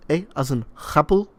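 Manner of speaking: imitated Middle Eastern accent. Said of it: "he's putting on a Middle Eastern accent".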